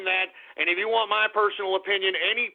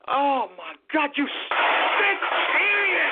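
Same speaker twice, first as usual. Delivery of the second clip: disgusted outcry; 5 semitones higher, slower than usual. Real, not acted. Reacting to Amtrak joke.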